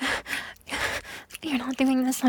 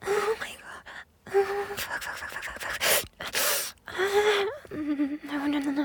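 higher-pitched shocked swearing; overwhelmed exclamation; 8 semitones higher, slower than usual. Acted. Lover overwhelmed by sudden sensation, high shocked swearing. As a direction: blurt it out, caught off guard. Overwhelmed outburst after gasp.

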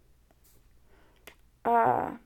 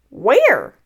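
loud cry, swooping up and down; baffled surprise; 2 semitones higher, 8 dB louder than usual. Acted. Pooh searching for presents and cake, baffled. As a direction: call out the question in bafflement.

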